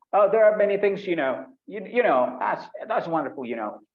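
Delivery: high, loud rambling full of fillers; filler-heavy gushing. Shown as a demonstration. Teacher shows the wrong way, rambling with fillers. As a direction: gush and stumble on "you know" fillers. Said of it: "No, don't do that".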